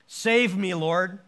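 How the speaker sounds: a cry of someone sinking; shouted prayer. Retold or imitated. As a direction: call out to be saved. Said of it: "he shouted".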